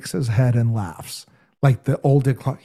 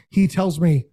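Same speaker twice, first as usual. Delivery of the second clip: ordinary talk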